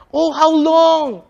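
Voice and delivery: slow, high, aching cry. Acted. Moses cries out to God, slow aching plea. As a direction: let the longing pull the words out slowly. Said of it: "confidently cries out".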